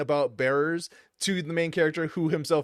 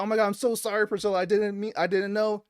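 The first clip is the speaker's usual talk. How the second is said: put-on higher, lightly pleading child; a touch of a distraught little girl; mock crying girl; 6 semitones higher, faster than usual. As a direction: imitate a tearful apology without real sobs. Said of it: "this girl just starts crying".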